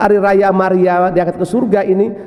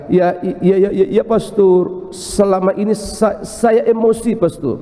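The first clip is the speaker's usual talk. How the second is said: tearful wife; slower than usual. Retold or imitated. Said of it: "Dia menangis".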